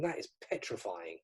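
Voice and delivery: low, menacing mock monster voice; a hint of a demonic voice-changer voice; distorted devil voice. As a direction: lightly voice a creepy distorted figure. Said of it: "with this voice going".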